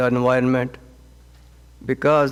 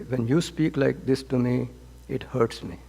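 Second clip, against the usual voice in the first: softer, sincere admission of hurt; gentle hurt; 5 dB quieter than usual. Retold or imitated. Spouse gently telling partner it hurts, soft and sincere. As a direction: tell them quietly that it hurts, without blame. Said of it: "It really causes me pain".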